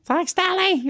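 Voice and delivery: son's mock sweet reply to a critical father; sarcastic thanks. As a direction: play the wounded son thanking dad through a sneer. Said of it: "And I'd be like".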